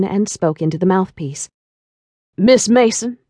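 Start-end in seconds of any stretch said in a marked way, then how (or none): 2.4-3.2 lightly voiced deep male caller with a French trace; a hint of a suave French businessman on the phone; deep French-accented man. A narrator's reading. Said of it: "deep tone of his voice with its seductive trace of a French accent".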